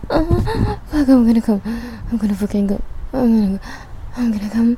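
loud, urgent moaning delivery; urgent, overwhelmed. Real, not acted. Solo recording for listeners, urgent and overwhelmed. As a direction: blurt it out loudly, losing control.

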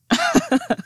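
sudden high, sneering laugh; mocking laugh. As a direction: burst out laughing at them. Laughs off unfinished praise.

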